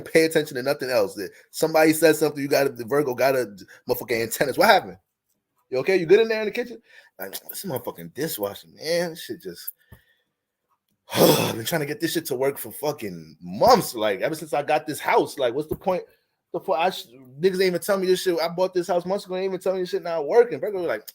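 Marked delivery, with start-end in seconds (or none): 4.6-6.8 higher, eager imitation of a curious guest; mock nosy concern. Imitating Virgo asking after the kitchen, mock curiosity. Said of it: "Curious ass". 7.5-20.6 sigh, then build to higher mock exasperation; hammed-up venting about a broken appliance; faked frustration. Shown as a demonstration. Baiting a Virgo guest over the dishwasher, faked frustration. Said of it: "You just gotta act mad frustrated".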